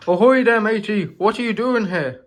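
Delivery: put-on high, loud pirate accent hailing a stranger. Pirate-accented engine hailing Dealey on the mainland. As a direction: boom out a pirate accent greeting. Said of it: "sorry about some of our accents".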